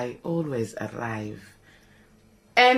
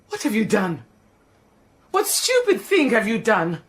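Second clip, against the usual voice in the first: scolding shout. Acted. Maid to Ra scolding him about the marriage. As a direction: berate him for his folly. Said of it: "Do not shout like that".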